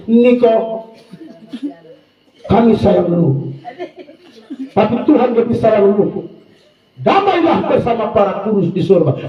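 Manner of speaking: slow, sugary farewell reading; mock sentimental eulogy. Pastor mocking a family's online condolence post, mock tender. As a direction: read the status with fake tenderness. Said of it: "kasih status".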